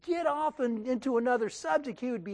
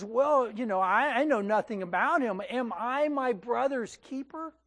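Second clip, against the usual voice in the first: dry, mocking "Am I my brother's keeper?" with a rising end; sarcastic retort; 2 semitones higher than usual. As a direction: toss the question back with a sneer. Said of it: "but sarcastically".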